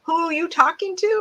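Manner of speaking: high, loud laughing question; laughing disbelief. Retold or imitated. Retelling proposal, laughing.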